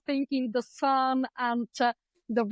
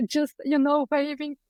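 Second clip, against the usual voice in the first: choking up slightly; a touch of real emotion in the voice; getting emotional. Real, not acted. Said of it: "I'm going to get emotional".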